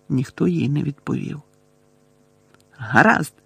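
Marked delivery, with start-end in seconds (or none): 2.8-3.3 mildly gruff consent; barked agreement. A narrator's reading. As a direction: give in curtly with a touch of anger. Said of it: "гаркнув Гаррі". (трохи сердито гаркнувши)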